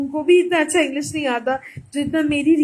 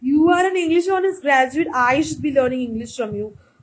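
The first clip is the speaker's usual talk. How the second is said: slow, syrupy mock sweetness to the younger cousin; drawn-out patronizing praise; slow sugary cousin; much slower than usual. Cousin answering her request with slow mock sweetness. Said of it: "And she was like".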